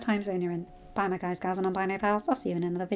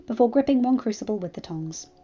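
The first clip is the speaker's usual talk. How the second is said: measured audiobook-style narration; story narration; 2 semitones lower than usual. A narrator's reading. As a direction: read the tale aloud evenly. Narrates the fan fiction.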